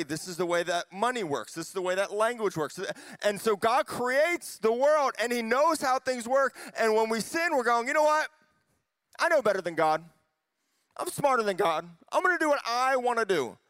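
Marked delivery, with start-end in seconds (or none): 3.2-13.6 raised, urgent pulpit delivery; fired-up preacher, pitch lifted; impassioned preaching. Real, not acted. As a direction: drive it home to a crowd with conviction. Preaches at full force.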